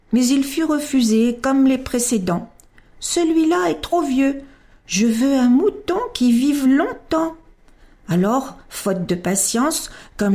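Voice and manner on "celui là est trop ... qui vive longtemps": put-on high childlike boy asking earnestly; lightly voiced child; little prince voice. A narrator's reading. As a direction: voice a small boy pleading for a sheep.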